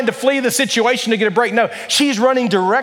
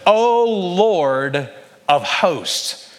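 crying out to God; 2 semitones lower, much slower than usual. Retold or imitated. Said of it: "she begins to cry out to God and says".

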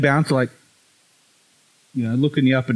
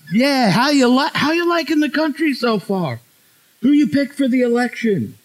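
American bus driver; 12 semitones higher than usual. Retold or imitated. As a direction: imitate an over-friendly American driver. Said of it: "bus in L A once".

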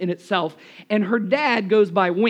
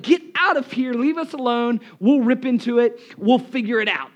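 raised mock-exasperated dismissal; acted impatience; 3 semitones higher, 4 dB louder than usual. Hungry diner sending the waiter away, mock impatient. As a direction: shoo him off, pitched up at first.

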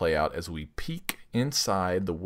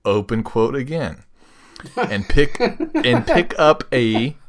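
sultry ad read; 4 dB louder than usual. Acted. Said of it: "Use that sultry voice of yours".

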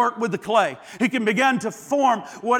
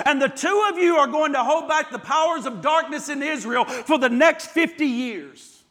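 commanding proclamation. Acted. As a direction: proclaim it like a sending out. God commissioning Elijah, preacher's climax.

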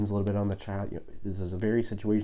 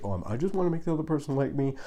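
higher, fast mock eager-to-please voice; a guy desperate to be liked, hammed up; mock eager dater; 9 semitones higher, faster than usual. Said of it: "First date".

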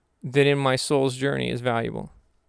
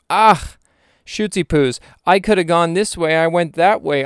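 raised, louder playacted frustration; mock exasperated regret; 2 semitones higher, 3 dB louder than usual. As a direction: bemoan the missed chance, hammed up. Imagines regretting life's missed path.

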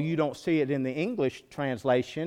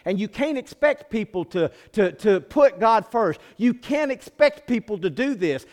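a hint of a lax, excusing voice, rising louder; mock excuse; 3 dB louder than usual. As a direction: parody the easygoing movement. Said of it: "this movement that says".

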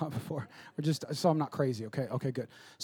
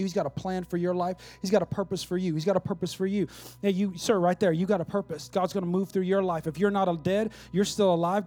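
insistent preaching; 3 semitones higher, 6 dB louder than usual. Real, not acted. Preaching with building force.

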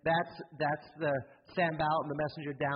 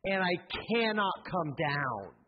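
proclaiming declaration; 3 semitones higher than usual. Shown as a demonstration. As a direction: declare it like a battle cry. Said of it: "You need to climb up on that wall and say".

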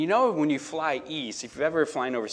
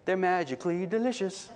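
ad jingle; 6 semitones higher than usual. Retold or imitated. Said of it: "fight the urge to not say".

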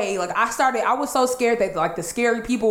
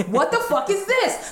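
high, drawn-out freaked-out cry; retold panic, pitched way up; panicked yell; 10 semitones higher than usual. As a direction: scream it like you're terrified. Panicked repeat in haunted woods.

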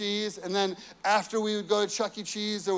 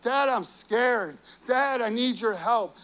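put-on child crying out; 3 semitones higher than usual. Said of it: "if my son is crying out for me".

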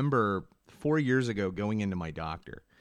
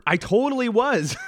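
high, loud laugh through the words; laughing admission; 11 semitones higher, 7 dB louder than usual. Real, not acted. Host admits to guest she got depressed, laughing. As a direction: laugh it out, caught off guard.

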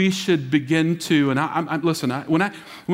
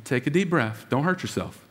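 calming; 3 semitones lower, 5 dB quieter than usual. Retold or imitated. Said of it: "He says, "Calm down".

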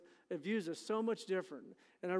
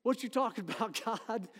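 the speaker as Arnold; 4 semitones higher than usual. Retold or imitated. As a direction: play the disbelief like the sitcom kid. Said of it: "Isn't that Gideon?".

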